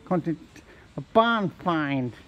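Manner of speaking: slow, dragged-out dopey delivery. Acted. Asked why, he answers in a slow dopey voice. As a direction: drawl it out like a dimwit. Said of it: "Why are you talking like that?".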